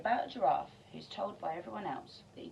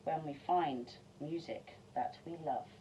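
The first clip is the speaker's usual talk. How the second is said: gentle; 4 semitones lower than usual. Acted. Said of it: "he said".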